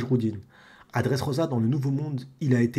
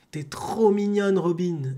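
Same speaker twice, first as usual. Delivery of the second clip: slow, slightly higher compliment; lightly voiced skeleton; 5 semitones higher, slower than usual. Streamer voicing the skeleton complimenting Robin, slow and lightly higher. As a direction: coo it slowly in a lightly put-on voice.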